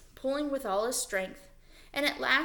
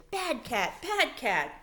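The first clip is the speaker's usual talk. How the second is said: a mild mock shout, a bit raised; girl scolding the cat across the camp, lightly raised; 4 semitones higher, slower than usual. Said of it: "Lana shouted".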